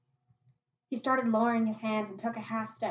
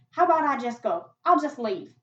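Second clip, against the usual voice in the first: anxious plea; 4 semitones higher, 9 dB louder than usual. Acted. Boy bargains to escape.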